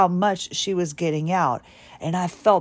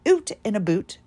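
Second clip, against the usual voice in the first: Scottish accent; 3 semitones higher than usual. Shown as a demonstration. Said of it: "And we say that".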